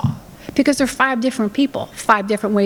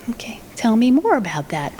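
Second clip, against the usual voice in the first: shocked mom. Acted. Mom hiding shock from child.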